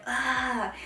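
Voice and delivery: imitated toddler's eager "ah"; excited reaching cry. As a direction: mimic a baby reaching for a plane. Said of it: "tries to reach for it".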